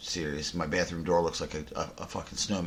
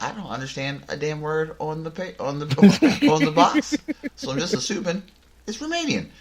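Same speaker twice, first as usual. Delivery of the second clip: mock-baffled explanation; 10 semitones higher, 7 dB louder than usual. Retold joking explanation to girlfriend, cracking up.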